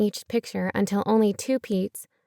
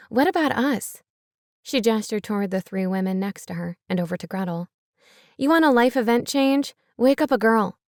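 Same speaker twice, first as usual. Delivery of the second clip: indignant outburst. Acted. Pearl stands up indignant.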